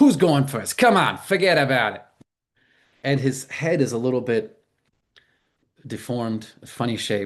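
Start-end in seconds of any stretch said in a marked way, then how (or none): 0.0-2.0 put-on really heavy, strong Brooklyn accent. Retelling a man's words again for the audience, strong Brooklyn accent. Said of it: "really strong Brooklyn accent".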